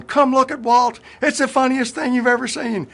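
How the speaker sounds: high, loud, delighted calling out; buddy shouting down the flight line, laughing; gleeful shout. Retold or imitated. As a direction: call everyone over to see the joke. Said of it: "He ran up and down the flight line going".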